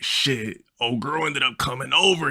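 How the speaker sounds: high homie impression; friend's voice. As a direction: confide the news in his high voice. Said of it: "Yeah, that's how he talked".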